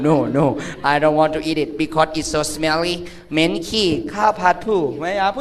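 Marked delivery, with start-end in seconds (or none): 0.1-2.9 lightly voiced foreigner refusing food; slow, put-on refusal in English; Western foreigner. Foreigner refusing crab fried rice, lightly put-on voice. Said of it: "ฝรั่งบอก".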